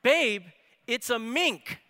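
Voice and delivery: mock excited announcement; excited yell. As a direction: call it out like a thrilled dad. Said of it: "my dad somehow yells with excitement".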